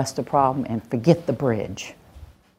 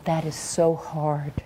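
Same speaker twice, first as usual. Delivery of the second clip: soft empathetic; 7 dB quieter, slower than usual. Shown as a demonstration. Empathy phrase demo.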